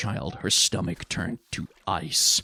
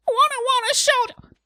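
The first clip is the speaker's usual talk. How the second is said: put-on very high, loud child's tantrum; screaming small boy; 6 dB louder than usual. A narrator's reading. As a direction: wail it like an affronted toddler. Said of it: "his screaming mouth".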